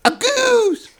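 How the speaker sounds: very high squealed goose; Jim Carrey goose. Retold or imitated. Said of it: "Jim Carrey does this. He goes like".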